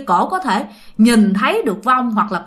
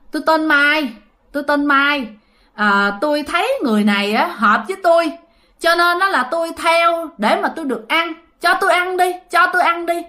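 vong nhập; 5 semitones higher than usual. Retold or imitated. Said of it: "nó nói rằng á hả".

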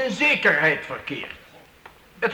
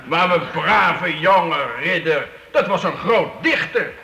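laughing mockery; 4 semitones lower than usual. Count mocks the young knight.

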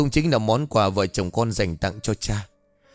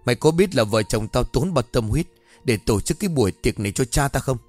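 angry scolding. Acted. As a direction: shout the beggar away in fury. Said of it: "rồi quát".

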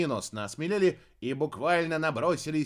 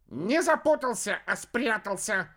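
proud alligator; 7 semitones higher, 3 dB louder than usual. A narrator's reading. Alligator corrects Kikhir, high and smug. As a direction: correct them smugly.

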